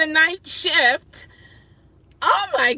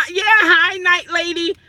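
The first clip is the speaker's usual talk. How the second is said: laughing greeting; 3 semitones higher, 5 dB louder than usual. Real, not acted. Greeting a viewer mid-laugh.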